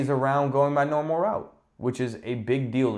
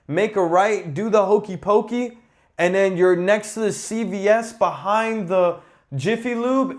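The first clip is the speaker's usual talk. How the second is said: high, louder imitation of parents giving directions; mimicking parents; 9 semitones higher, 3 dB louder than usual. Parents giving landmark directions, mocked high. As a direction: rattle off directions like mom and dad. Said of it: "My parents be like".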